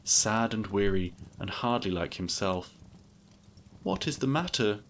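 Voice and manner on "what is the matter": higher-pitched anxious question, mildly acted; concerned cry. A narrator's reading. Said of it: "she cried".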